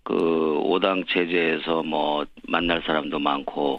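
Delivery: worn-out hoarse voice. Real, not acted. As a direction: speak through a hoarse throat. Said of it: "목이 쉬더라고요". (쉰 목소리)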